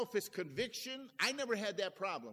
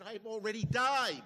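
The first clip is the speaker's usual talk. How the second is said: emphatic retort; 7 dB louder than usual. Retold or imitated. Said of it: "I said".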